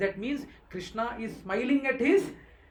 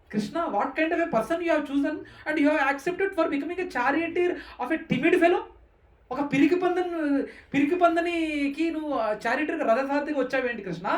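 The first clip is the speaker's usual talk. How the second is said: mocking onlookers; 4 semitones higher, 5 dB louder, much faster than usual. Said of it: "What a comedy, right?".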